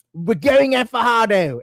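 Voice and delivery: put-on a light Kiwi accent for the coach's words; tossed-off New Zealand accent impression; quoting the coach in a slight Kiwi accent; mock Kiwi accent. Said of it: "British ba yun or Kiwi accent".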